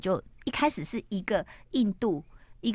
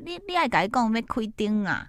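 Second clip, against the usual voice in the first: lightly acted Fujian dialect; retold in Fujian dialect, pitched up; Fujian accent; 4 semitones higher than usual. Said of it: "那爸爸是福建人".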